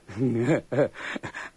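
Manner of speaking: brief wry chuckle; short chuckle. Acted. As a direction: chuckle at a friend's bad luck. Cellmate chuckles at the son's betrayal.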